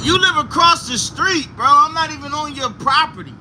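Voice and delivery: high-pitched retold objection; indignant protest. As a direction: protest back in disbelief.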